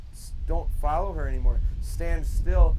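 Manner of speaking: called out loud across the field; loud instruction. Real, not acted. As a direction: project the order over distance. Trainer commanding handler across field.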